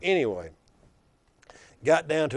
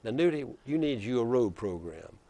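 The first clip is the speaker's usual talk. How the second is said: put-on Black Belt accent. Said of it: "he says in that deep black belt accent".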